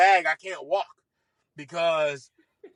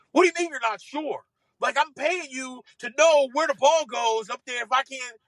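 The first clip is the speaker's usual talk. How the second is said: indignant challenge, higher than usual; retold irritated golfer demanding an answer; snapping; 5 semitones higher, 3 dB louder than usual. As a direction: snap it like a fed-up boss. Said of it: "he's snapping at me".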